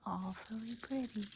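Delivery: playful American accent attempt. Shown as a demonstration. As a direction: say "Awfully pretty" like an American. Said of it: "here you'd say".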